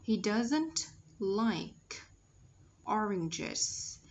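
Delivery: slow model, "oranges" with a j sound for the g; slow, careful teacher's reading ending on "oranges"; soft G sounded. Shown as a demonstration. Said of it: "G E là dấu hiệu của âm G".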